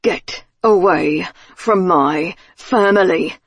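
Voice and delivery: slow, enraged growl through teeth; through gritted teeth. Acted. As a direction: threaten him, teeth clenched. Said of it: "gritted teeth, red, enraged face".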